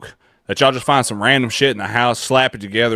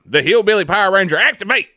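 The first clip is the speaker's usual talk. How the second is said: shouted high like a cartoon transformation; hammed-up superhero battle cry; mock hero call; 9 semitones higher, 5 dB louder than usual. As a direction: yell it like a Power Ranger morphing.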